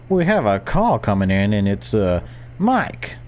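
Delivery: upbeat late-night radio host. Shown as a demonstration. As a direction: announce it like a radio DJ. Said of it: "sorry, radio voice".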